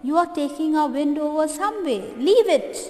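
fast, rising to a loud high leave it; girl ordering boy to leave bird, mock shout. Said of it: "girl shouts at the boy".

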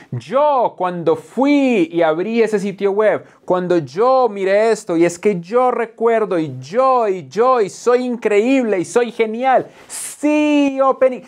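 hammed-up show-off; self-centred speaker. Mocking a speaker who only talks about himself, smug. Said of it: "conferencias donde solamente hablas de ti".

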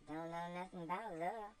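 put-on cheeky girl shrugging off blame; voiced slave girl Topsy. Topsy answers her master with cheeky girlish voice.

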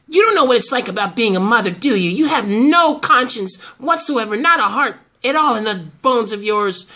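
reproachful, with a touch of scorn; scathing tone. Acted. Accusing the grandmother of having no heart, scathing tone. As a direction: accuse with mild contempt. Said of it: "speak like that in that tone".

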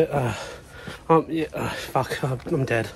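gasping, barely getting words out; too winded to talk; out of breath. Real, not acted. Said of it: "forget what I just tried to speak there".

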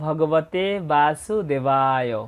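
slow, reverent recitation opening; slow chanted opening of the Gita lesson; solemn invocation. Acted. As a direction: intone the opening like a prayer.

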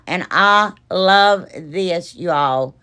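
slow, drawn-out admiring love; savouring. Real, not acted. Admiring her finished frame to viewers, slow and savouring. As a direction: linger lovingly on each word.

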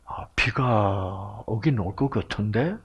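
soft slow whisper with a gentle rise; 다정하게 속삭이듯; kindly reply. Retold or imitated. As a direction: gently humour his wife. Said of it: "내가 지금 좀 친절하자".

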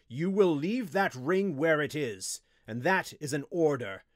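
loud, stern command. A narrator's reading. Wizard ordering his apprentice, sternly. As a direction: lay down the law forcefully. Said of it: "drew himself up to his full height".

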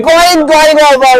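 slow drawn-out building call; excited cricket commentary. Real, not acted. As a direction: stretch it as the ball sails. Ball flying over boundary. (উত্তেজিত ধারাভাষ্য)

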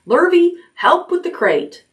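high urgent call; shouting. A narrator's reading. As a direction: call out to the hired man. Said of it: "shouted Mister Zuckerman".

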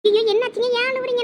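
high, worried rush of concern; alarmed concern. Acted. Wife to husband she thinks is crying, alarmed concern.

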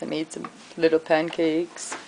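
tiny soft voice for little pancakes; small voice for little. Pretend. Vlogger describing her little pancakes, small soft voice. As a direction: shrink the voice for the little ones.

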